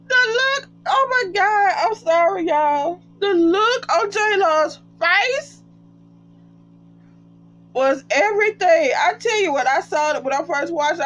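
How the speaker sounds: high squeaky voice, cracking with laughter; laughing. Real, not acted. Vlogger recalling Jaylon's face, laughing high and squeaky. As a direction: barely get it out for laughing.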